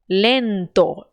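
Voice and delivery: lento ending on a pure O; Spanish O. Shown as a demonstration. Teacher corrects a student, lento with a pure O. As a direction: keep the O in lento round. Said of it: "cuidou de não transformar essa letra O em U".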